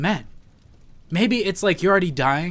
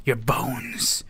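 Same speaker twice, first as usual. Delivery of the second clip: prophecy; 3 semitones lower, 5 dB quieter, much slower than usual. Acted. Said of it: "that was a prophecy".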